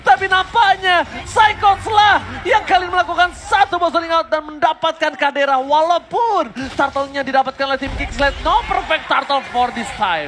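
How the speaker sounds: high, loud shouted play-by-play; esports caster. Real, not acted. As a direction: call it live, hype easing off. Hyped play-by-play call.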